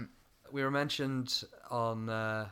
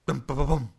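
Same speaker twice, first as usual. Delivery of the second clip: drum sounds; 5 dB louder than usual. Shown as a demonstration. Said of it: "it sounds like".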